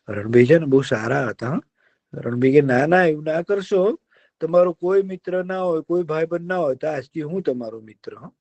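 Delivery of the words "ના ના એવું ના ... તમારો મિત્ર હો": kind deer. Acted. Deer cheers up the sad fox, coaxing. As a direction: soothe him like a gentle deer.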